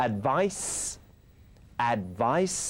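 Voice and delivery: "advice" said singly with a clear final s; model pronunciation. Shown as a demonstration. Teacher leading viewers to repeat, model pronunciation. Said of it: "พูดตามผมก็ได้ครับ".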